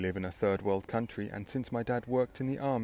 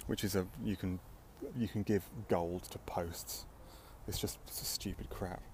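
slow, breathy whispered aside; 3 semitones lower, 7 dB quieter than usual. Real, not acted. Muttered aside while reading.

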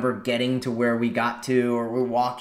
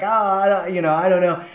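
embarrassed stammer; 6 semitones higher than usual. Retold or imitated. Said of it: "caught red-handed and kind of, like, embarrassed".

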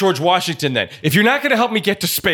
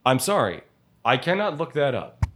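Alexa voice; 6 dB quieter than usual. Pretend. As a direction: answer like a voice assistant. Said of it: "Hey, Alexa".

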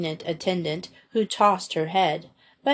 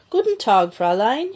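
hearty German greeting; 3 semitones higher, 4 dB louder than usual. Acted. Eccentric music master greeting Madge, loud and jolly. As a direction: boom a cheery hello in German.

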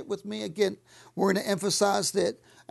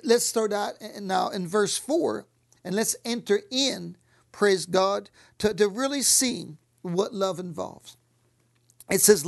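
normal talking voice

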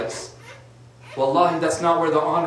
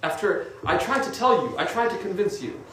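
softer, sorrowful mother voice; pitying mother; 3 semitones higher, 3 dB quieter than usual. Retold or imitated. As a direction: plead softly, full of pity. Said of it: "The mother just takes pity and says".

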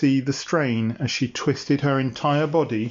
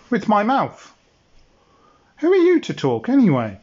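indignant dinosaur voice; faster than usual. Acted. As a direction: snap back like an offended creature.

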